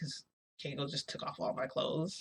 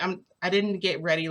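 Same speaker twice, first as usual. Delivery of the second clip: panicked protest; 3 semitones higher, 7 dB louder than usual. Retold or imitated. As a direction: stammer it out, flustered. Panicking protest in retold scene.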